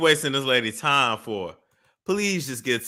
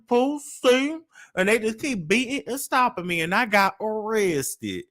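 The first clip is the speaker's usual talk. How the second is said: higher, hammed-up imitation of the caller; mocking the caller; 5 semitones higher than usual. Host imitates the caller's story to mock her. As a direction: play her back as a whiny victim. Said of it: "you see that accent going in and out".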